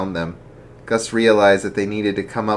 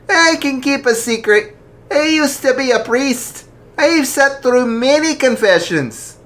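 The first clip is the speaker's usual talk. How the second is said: jolly archbishop; 5 dB louder than usual. Acted. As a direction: ask gently but heartily. Archbishop voiced in story.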